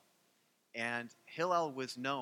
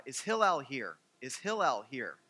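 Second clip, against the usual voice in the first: calling loudly at the rabbi's door; retold shout; 6 dB louder than usual. Man yelling for Hillel at night, louder. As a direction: raise the voice to call him out. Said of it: "and he shouted".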